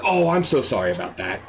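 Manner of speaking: low, insincere sympathy; fake apology. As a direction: apologize without meaning it. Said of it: "I don't care".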